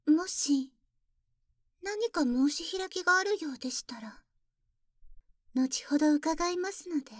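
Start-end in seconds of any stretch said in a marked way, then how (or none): 0.1-4.2 teasing whisper in the ear. Acted. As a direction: whisper it knowingly. (耳元でささやく)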